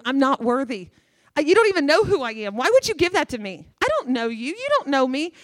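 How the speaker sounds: pleading refusal. Retold or imitated. Man refusing Jesus's gift.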